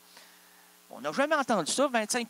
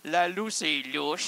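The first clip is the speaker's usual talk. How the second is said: ordinary delivery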